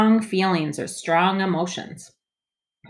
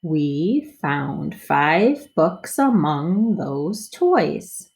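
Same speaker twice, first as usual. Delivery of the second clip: smoother reading; much slower than usual. Shown as a demonstration. Teacher models smoother second read for kids. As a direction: read it through more smoothly. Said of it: "read it a little smoother".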